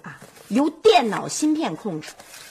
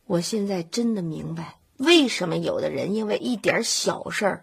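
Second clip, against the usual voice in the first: gloomy musing; 5 semitones lower than usual. Acted. Wife in despair, gloomy musing.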